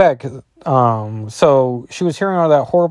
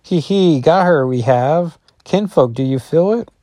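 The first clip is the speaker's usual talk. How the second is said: higher, giggling monster taunt; gloating werewolf; 5 semitones higher than usual. Acted. Five-headed werewolf gloating over captured Rachel, higher mocking voice. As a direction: cackle over the captured girl. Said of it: "werewolves combined into one being".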